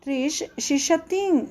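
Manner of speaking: shishatin echoed slowly for students; slow repeat. Shown as a demonstration. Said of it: "ayúdanos con el verbo bañarse". (la maestra repite shishatin despacio)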